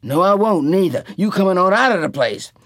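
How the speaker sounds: loud, high furious order; Tea Cake angry. A narrator's reading. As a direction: throw the drunk out. Tea Cake throwing him out.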